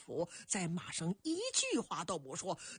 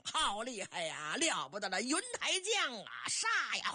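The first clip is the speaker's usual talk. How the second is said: soldiers' battle cry. Acted. Enemy soldiers react to the general they cannot stop, crying out. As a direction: cry out in alarm, building to a charge. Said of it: "反王兵将也高声嚷".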